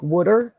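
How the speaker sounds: "water" said as "wooder"; first vowel of "water" like "wood"; Philly "water". Shown as a demonstration. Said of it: "That's how we say it in Philly".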